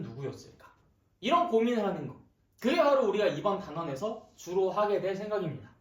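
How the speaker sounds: talking around a hard candy; candy in the mouth, words slurred; sucking a hard candy. Real, not acted. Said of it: "여기 사탕 좀 뱉어야겠네요. 말이 잘 안 나오네".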